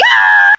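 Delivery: short, loud "ah" yelp; retold scream. Storyteller imitating herself screaming in the bathroom, loud yelp. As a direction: yell out a brief scream as retold. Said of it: "And I'm screaming".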